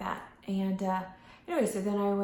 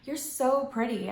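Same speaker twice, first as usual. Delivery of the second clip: sincere compliment; 5 semitones higher, slower than usual. Shown as a demonstration. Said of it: "and say".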